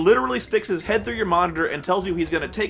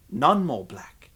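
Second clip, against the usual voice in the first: slow, deadpan and low; deadpan rocker quote; 3 semitones lower, much slower than usual. Retold or imitated. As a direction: drag it out like a dim rocker. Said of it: "the answer is".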